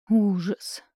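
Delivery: gloomy voice from beyond the grave; sepulchral voice. Acted. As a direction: say it like a doomed ghost. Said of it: "Загробным голосом делюсь". (загробным голосом)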